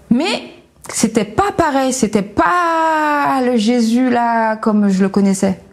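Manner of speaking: slow, crying through the words; genuinely moved, voice breaking; real tears. Real, not acted. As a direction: let the tears come, slowly. Emotional memory of meeting Jesus.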